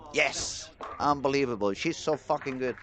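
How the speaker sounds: real burst of excited disbelief; really excited. Real, not acted. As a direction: exclaim it like a thrilled commentator. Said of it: "I got really excited".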